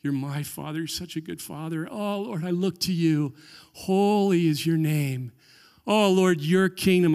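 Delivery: gentle, quiet worship; soft devoted prayer. Shown as a demonstration. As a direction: murmur it lovingly to God. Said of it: "going through this in your mind".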